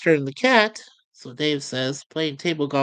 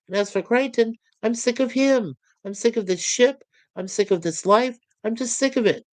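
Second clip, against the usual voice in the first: higher voice, sick of everything and listing it all; fed-up Lister rant; 6 semitones higher than usual. Acted. Lister venting to Kryten, higher fed-up rant. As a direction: pile the complaints up one after another.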